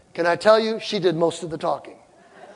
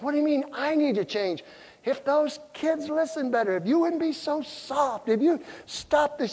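defensive husband; 7 semitones higher, 6 dB quieter than usual. Retold or imitated. Husband defending himself to wife.

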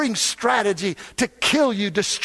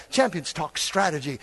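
normal talking voice

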